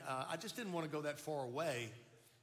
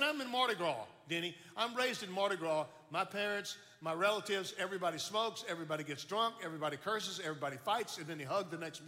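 raised, punchy retort; emphatic protest; 3 semitones higher, 3 dB louder than usual. Retold or imitated. Student explaining his family to a preacher classmate, emphatic protest. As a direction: rattle off the family's habits emphatically.

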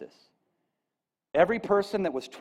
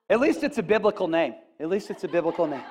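laughing; faster than usual. Real, not acted. Laughing at own slip.

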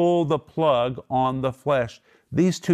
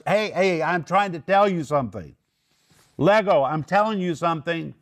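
higher, insistent raised voice, lightly acted; 5 semitones higher than usual. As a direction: make the people in the flesh hear you, voice lifted high. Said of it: "Paul's lifting his voice".

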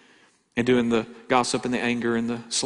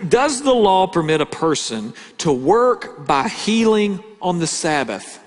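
higher, louder, slow British Pharisee; British accent; 6 semitones higher, 5 dB louder, slower than usual. Acted. Pharisees challenge Jesus about healing, formal British accent. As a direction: put the formal question slowly in a raised British voice. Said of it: "the Pharisees sound British whenever I read it".

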